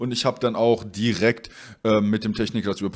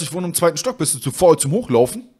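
raised, louder acted challenge; retold reproach; 4 semitones higher, 4 dB louder than usual. Customer on second floor challenges courier, reproachful. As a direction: throw it as an accusing question.

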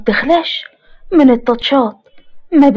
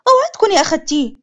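put-on higher, pushy young girl calling her grandma; spoiled granddaughter; 4 semitones higher, faster than usual. Mariam shouting for her phone, higher and pushy. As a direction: demand it like a spoiled brat. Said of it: "قطع صوت مريم".

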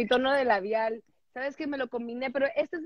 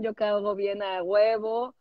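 slow, put-on voice with a proud edge; teasing friend mimics his bragging, slow put-on voice; mock Jonathan voice; slower than usual. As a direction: play Jonathan boasting, drawn out. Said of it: "Jonathan dice que él caga bien".

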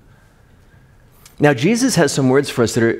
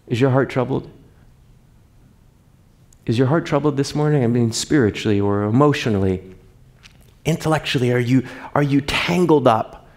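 gentle question; 3 dB quieter than usual. Real, not acted. Pastor asks congregation gently.

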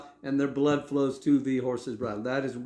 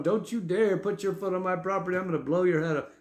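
higher, hammed-up redneck threat; lightly voiced gun-toting threat; mock threat; 5 semitones higher than usual. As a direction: play a trigger-happy property owner. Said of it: "We're just going".

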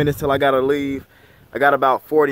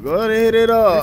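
hyped-up call; 6 semitones higher, 5 dB louder than usual. Real, not acted. Urging friend on.

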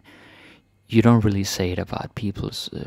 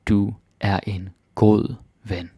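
slow. Shown as a demonstration. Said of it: "If you wanna say it fast".

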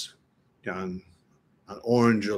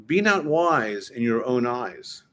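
slow, weighty reading with stress on not; slow scripture reading; slower than usual. Shown as a demonstration. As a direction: read it slowly, stressing not. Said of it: "But look what it says".

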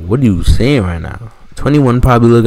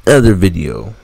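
speaking around a retainer; wearing a retainer. Real, not acted. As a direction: retainer in the mouth. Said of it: "I got my retainers in".

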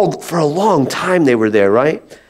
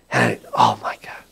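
mock shock; 6 dB quieter than usual. Finding the dusty Bible.

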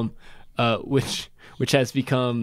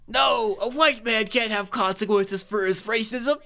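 sarcastic; 10 semitones higher than usual. Pretend. Mocking sarcastic retort.

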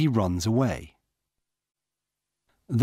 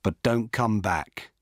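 ordinary delivery

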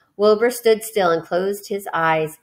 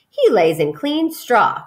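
correcting; 3 semitones higher, 3 dB louder, slower than usual. Acted. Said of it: "corrected Mister Zuckerman".

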